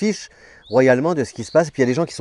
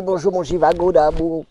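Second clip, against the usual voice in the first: cute little cat voice, higher; voix de chat mignonne; 5 semitones higher than usual. Pretend. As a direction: speak for the cat in a sweet voice. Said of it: "tu dis". (voix aiguë prêtée au chat)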